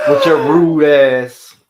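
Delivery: mock scolding. Real, not acted. Teasing scolding of cohost.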